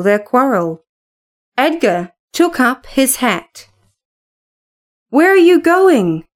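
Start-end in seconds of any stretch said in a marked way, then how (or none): 5.1-6.3 a lightly voiced desperate cry; urgent cry. A narrator's reading. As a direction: stop him before he leaves. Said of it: "cried Kathy, dashing to the door".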